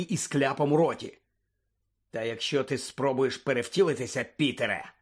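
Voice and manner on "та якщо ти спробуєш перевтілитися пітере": understated menacing growl; growled threat. Acted. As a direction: warn him with restrained menace. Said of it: "прогарчав Блек".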